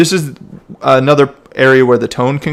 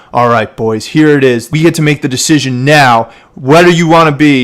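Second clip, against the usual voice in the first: louder, rising rally call to the crew; building up; 4 dB louder than usual. Shown as a demonstration. Coach models a coxswain's call before a move, building up. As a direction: build the moment up, firmer and louder. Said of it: "build this up in a slightly different way".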